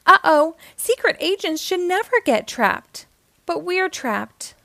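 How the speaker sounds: high-pitched, worried fretting; starting to panic. A narrator's reading. Pablo frets inside the cage, beginning to panic. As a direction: fret as panic creeps in. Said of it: "starting to panic".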